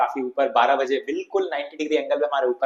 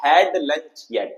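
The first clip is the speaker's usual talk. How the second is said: slow model reading; much slower than usual. Shown as a demonstration. Teacher repeats the model.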